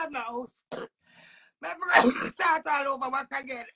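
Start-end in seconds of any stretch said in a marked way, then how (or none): 1.6-3.6 crying. Real, not acted. Tearful about losing house.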